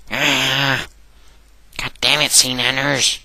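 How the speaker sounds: high, loud borrowed catchphrase yell; mock angry outburst. Gamer ripping off others' catchphrases over a failed build, mock angry yell. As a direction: yell it out in hammed-up frustration. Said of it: "How many people can I rip off".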